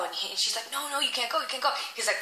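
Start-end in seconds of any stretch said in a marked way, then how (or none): 0.7-1.7 slightly higher, urgent protest; mock pleading. Wife begging her husband not to go, mock pleading. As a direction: lightly act out a wife's plea.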